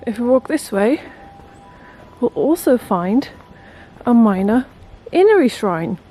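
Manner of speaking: panting words in short bursts; breathless from the steps, gasping; gasping for air. Real, not acted. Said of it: "I'm so out of breath".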